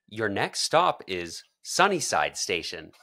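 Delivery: slow, measured station call; announcer voice. Pretend. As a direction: announce the next stop. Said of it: "I would love to do the train announcement".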